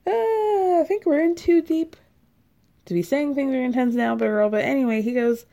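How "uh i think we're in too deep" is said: much higher and louder, disbelieving; incredulous reaction. Real, not acted. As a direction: react as if you can't believe what you're reading.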